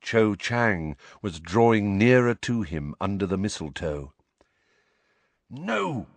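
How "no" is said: inner protest. A narrator's reading. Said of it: "said a voice inside Harry's head".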